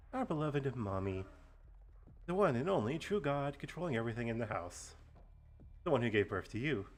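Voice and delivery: theatrical villain monologue; menacing, relishing each word; slow theatrical villain menace. Acted. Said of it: "do a nice villain monologue".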